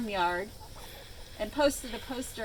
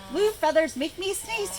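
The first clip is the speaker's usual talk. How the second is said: monkey voice; 7 semitones higher, 4 dB louder than usual. A narrator's reading. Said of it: "he said".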